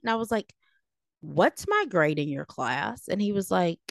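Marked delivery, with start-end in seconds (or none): 1.2-3.1 mildly snarky retort, drawn out; retold comeback with measured sass. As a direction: toss it back as a slow, cheeky challenge. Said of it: "got in trouble for being snarky".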